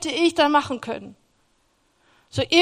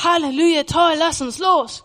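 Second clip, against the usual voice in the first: louder, higher, eager cheer; imitating eager zeal; excited hallelujah; 4 semitones higher, 5 dB louder than usual. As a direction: cheer it out like you can't wait. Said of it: "Und ich war".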